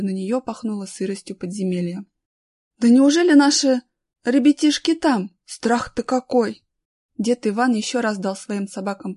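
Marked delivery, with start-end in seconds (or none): 2.8-6.6 loud, high, anxious exclamation; acted dismay, slowing at the end; dismayed disbelief. A narrator's reading. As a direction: voice a worried woman aghast at the thought. Galya dreads children are inside.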